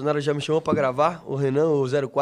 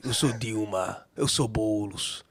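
lower, slow Lula delivery; slow mock politician; lightly voiced Lula; 5 semitones lower, 4 dB quieter, much slower than usual. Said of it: "imitar o Lula".

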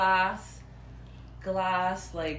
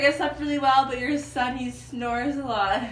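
lightly cheeky retold reply; imitating a playful, cheeky answer; 4 semitones higher than usual. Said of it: "trying to be cheeky with it".

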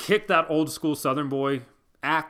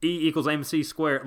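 put-on comic bit in a Southern accent; 3 dB quieter than usual. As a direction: lightly imitate a Southern-accented genius. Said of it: "If Albert Einstein had a Southern accent".

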